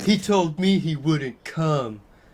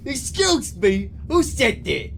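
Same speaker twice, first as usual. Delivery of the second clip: yelling; 8 semitones higher than usual. Acted. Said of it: "yelled Mister Norris".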